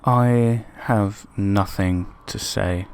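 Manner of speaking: slow, drained and deadpan; stunned after the defeat, slow and dejected; flat dejection. Real, not acted. After the losing final whistle.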